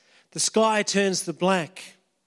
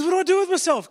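despairing disciple; 9 semitones higher, 3 dB louder, much faster than usual. Acted.

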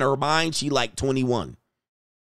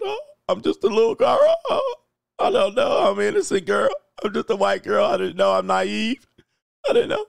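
mocking white girl tears; 8 semitones higher than usual. Streamer mocking a crying woman, shrill fake sobbing. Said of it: "they get their eyebrows all furrowed".

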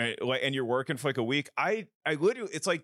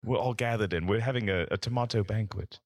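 lightly regal, lowered tomato; a hint of a grand noble; 4 semitones lower than usual. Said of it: "You sound very regal".

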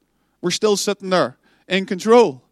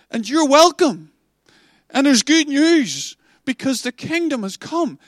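excited proclamation; 4 semitones higher than usual. Acted. Preacher voicing Jesus to the broken, joyful and rising. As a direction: announce it like wonderful news.

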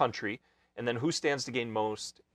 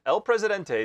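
grand announcer title; 8 semitones higher, 6 dB louder than usual. Acted. Host announcing mock title.

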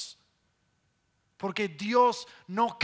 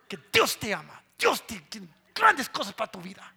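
lightly voiced, louder and driven pastor; intense pastor voice; 4 dB louder than usual. Imitating Pastor Mario blessing someone, a touch louder and intense. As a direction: push each blessing with a hint of fervor. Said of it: "Que te habla así".

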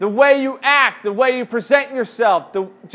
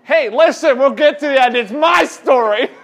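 louder, laughing "hey, listen"; half-joking louder rebuke to a student; playful loud cut-in; 3 semitones higher, 5 dB louder than usual. Real, not acted. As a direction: shout them down with a grin. Student interrupts, leader cuts in.

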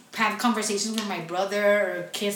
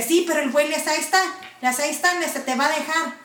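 higher, scolding mother's voice in Spanish; retold scolding mom; 6 semitones higher, much faster than usual. Mom scolding her daughter about the boyfriend, higher scolding voice. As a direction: mimic mom telling her off.

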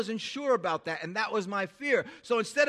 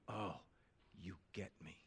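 soft relief; 13 semitones lower, 17 dB quieter than usual. Retold or imitated. Quoting validated person.

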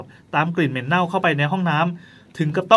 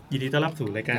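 quiet welcome; 3 semitones lower, 7 dB quieter than usual. Real, not acted. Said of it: "ทำไมต้องทำเสียงเบาด้วยวะ".

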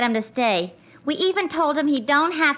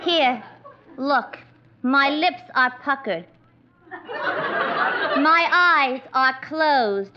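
vamping; slower than usual. Acted. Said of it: "vamp Treacher into staying".

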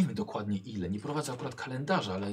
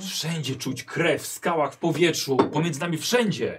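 intense, ominous; 4 semitones higher, 6 dB louder than usual. Acted. Heminger describes blood, intense.

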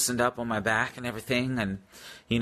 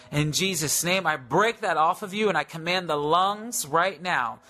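lightly raised commanding prayer voice; healing prayer; 3 semitones higher than usual. Acted. Praying healing over the viewers, in a lightly raised, commanding prayer voice.

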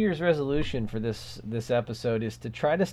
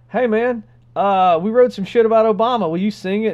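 producer voice; 6 semitones higher, 8 dB louder than usual. Retold or imitated. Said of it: "they go".

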